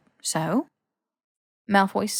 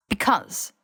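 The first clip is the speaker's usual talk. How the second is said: short sharp snap; snapped. Acted. Malfoy snapping at Harry, sharp. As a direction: cut him off sharply. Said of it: "Malfoy snapped".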